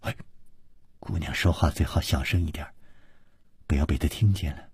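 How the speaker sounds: low, secretive aside. Acted. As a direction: drop the voice so he can't overhear. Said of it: "故意压低了声音说".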